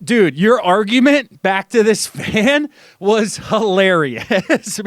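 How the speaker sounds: slow, amused through a laugh; amused fan reaction. Retold or imitated. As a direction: chuckle it out slowly. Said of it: "the additional secondary reaction of".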